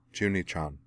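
soft, tender address; gentle. A narrator's reading. Azana soothing Junie-chan, gently. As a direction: say the name gently and quietly. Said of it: "said Azana gently".

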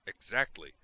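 loud, gleeful exclamation; triumphant. Acted. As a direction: crow it like you've won. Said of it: "Duke said triumphantly".

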